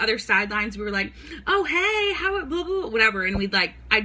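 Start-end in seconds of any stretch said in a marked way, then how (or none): 1.5-2.9 goofy greeting. Retold or imitated. Mimicking silly video openers.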